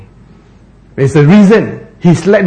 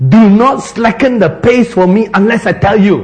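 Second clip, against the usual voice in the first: urgent order; 5 semitones higher than usual. Retold or imitated. Acting the woman's urgent order.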